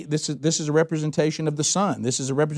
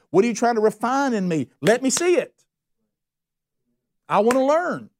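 building higher into eager pleading; fervent prayer; 6 semitones higher than usual. Retold or imitated. Disciple begging the Lord for lessons, fervent prayer. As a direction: plead hungrily to be taught. Surrendered believer praying.

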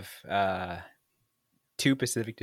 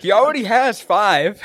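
high, loud, laughing; 13 semitones higher, 9 dB louder than usual. Real, not acted. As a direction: laugh through the words. Laughing remark.

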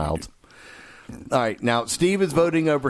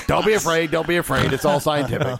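mock reassuring coach; 6 semitones higher than usual.

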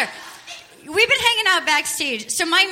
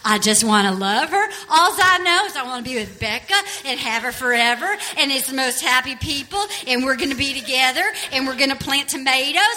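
Of Mice and Men Lennie voice; 3 semitones lower than usual. Retold or imitated. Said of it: "he's like of Mice and Men".

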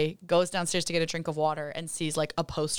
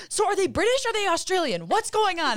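confused high-pitched self; 12 semitones higher, 4 dB louder than usual. Retold or imitated. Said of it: "I said".

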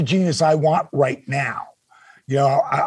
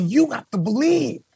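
Dusty's advice; 5 semitones higher than usual. Retold or imitated. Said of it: "Dusty telling me".

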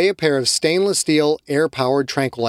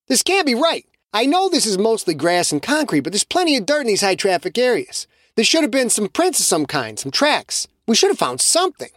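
higher, frustrated voice; puzzled Shay; 8 semitones higher than usual. Acted. Shay puzzled at missing tracks, higher voice. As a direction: doubt the empty search.

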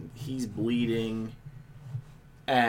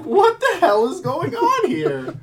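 laughing; 8 dB louder than usual. Retold or imitated. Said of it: "Just like".

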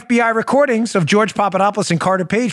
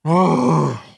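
laughing despair; 6 semitones lower, much slower than usual. Real, not acted. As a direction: give up laughing at the stupidity. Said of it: "tragically laughing".

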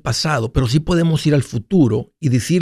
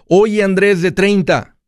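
drawn-out, higher-pitched call to a younger self; future self calling back; 6 semitones higher than usual. Acted. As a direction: hail your past self, slowly and higher. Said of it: "Estoy en el futuro hablándole al pasado".

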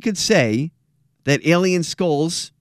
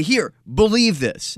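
slow, higher mock command; pushy mock insistence; 5 semitones higher, slower than usual. Host shows what the show won't do to listeners, mock insistence. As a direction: act out forcing it on someone, word by word. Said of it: "throw it in your face and say".

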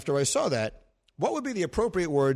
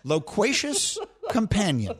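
laughing grandly; 3 semitones higher, slower than usual. Shown as a demonstration. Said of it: "Oh, God".

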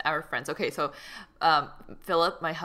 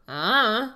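imitated "uh" sound; 5 semitones higher, 5 dB louder than usual. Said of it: "she also makes this sound that goes".

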